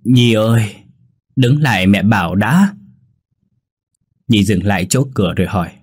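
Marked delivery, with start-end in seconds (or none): 0.0-2.8 mildly choked-up calling out. Acted. Old mother calling her daughter-in-law back, a touch choked. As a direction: call after her, a touch tearful. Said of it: "Bà cụ Tám nghẹn ngào gọi".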